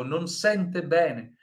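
slow, clear model phrase; slow it down so the class hears it; "non sente bene" slow, stress on "sente". Shown as a demonstration. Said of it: "Vejam, não é o verbo sentir-se".

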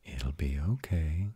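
slow, tender reassurance; gently drawn-out comfort; reassuring. Acted. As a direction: comfort your mate, taking your time. Reassuring a frightened mate.

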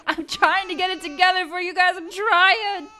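high, loud laughing cry; laughing frustration. Real, not acted. Frustrated about crying babies.

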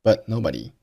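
but with its t swallowed before nobody; but nobody with no burst on the t; unreleased t. Shown as a demonstration. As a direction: stop the t of but silently, then nobody. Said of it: "But结尾的t失爆".

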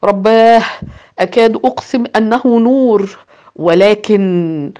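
a burst of amazed recognition; exclaiming. Acted. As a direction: blurt it out in disbelief. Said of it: "هاتفا".

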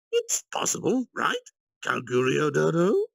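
slow, pointed nudge with a grin; Yuki, knowing smile. A narrator's reading. Yuki slyly prods Kalgurio before the council, high and loud. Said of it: "Yuki, bringing up the subject to Kalgurio".

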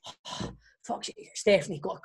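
slow, half-whispered mock grumble; imitating annoyed mutter. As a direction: grumble like a man disturbed mid-telly. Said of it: "He's like".

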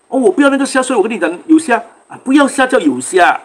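mildly heated mock protest; angry retort. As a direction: retell an exasperated argument, slowing at the end. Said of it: "哇，气到他啊".

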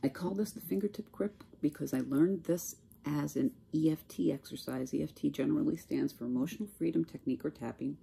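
speaking with a dry mouth. Real, not acted. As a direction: talk through a parched mouth. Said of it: "I am very, very dry mouth today".

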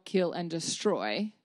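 ordinary talk, nothing marked

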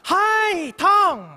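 shouted high Hi, Tom; loud English greeting. Retold or imitated. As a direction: call out to dad across the house. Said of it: "就用英语".

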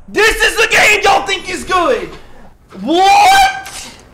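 baffled disbelief. Real, not acted. Baffled by sudden death.

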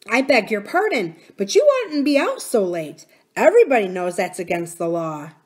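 apologise, then admonish boldly; lightly voiced miner boy. Miner boy scolding nurse for lateness, polite but firm.

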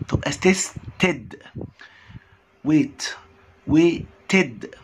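slow, drawn-out ed syllable. Shown as a demonstration. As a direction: stretch the ويتد ending. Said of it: "الاي دي تنطق اي دي".

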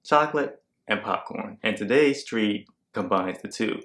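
jaw propped on palm; lounging relaxed delivery; head resting on hand. Real, not acted. Seen 0: Head leans on hand cupping cheek and jaw throughout the words.

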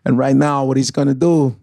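lightly voiced Walken with halting pauses; a subtle hint of Walken, grounded; Christopher Walken impression. Shown as a demonstration. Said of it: "Get Christopher Walken".

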